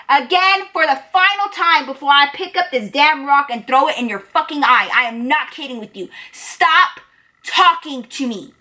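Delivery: retold final warning, emphatic; angry warning. Narrator warns Damien for the final time, angry.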